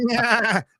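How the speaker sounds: high put-on goat bleat; goat sound. Shown as a demonstration. Radio host goofing around with goat noises, goat bleat. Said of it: "Let me hear your goat".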